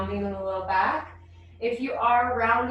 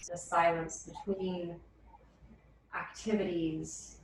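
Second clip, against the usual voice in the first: guided meditation; 3 semitones lower, 4 dB quieter than usual. Real, not acted. Yoga teacher settling the class into silence, calm guided meditation. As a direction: settle them gently into stillness, unhurried and low-key.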